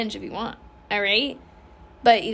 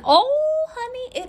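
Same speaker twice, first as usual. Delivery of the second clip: sassy; 14 semitones higher, much slower than usual. Real, not acted. Sassy exclamation.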